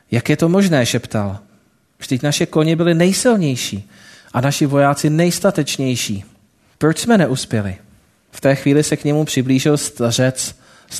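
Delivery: lightly voiced storytelling read to the congregation; story narration. A narrator's reading. Preacher telling the congregation a parable, storytelling voice. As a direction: tell the parable steadily, drawing listeners in.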